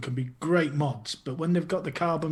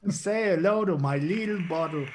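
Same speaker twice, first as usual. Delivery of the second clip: playful movie-thug impression; lightly hammed-up gangster catchphrase; Scarface; 3 semitones higher than usual. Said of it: "one of the thugs out of Scarface".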